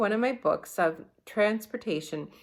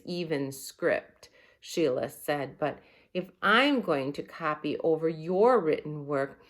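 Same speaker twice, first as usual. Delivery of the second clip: teacherly Sheila. Acted. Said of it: "talked like she was the teacher".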